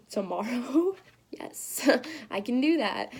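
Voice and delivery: retold giddy yes, breaking into laughter; laughing in disbelief. Answering the Nashville call, laughing with joy. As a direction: laugh through the words, stunned. Surprise call inviting her.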